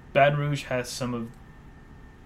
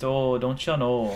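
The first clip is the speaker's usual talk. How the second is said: put-on Midwestern accent; slower than usual. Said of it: "talking in your Midwestern accent".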